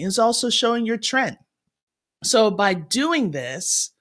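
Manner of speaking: ordinary delivery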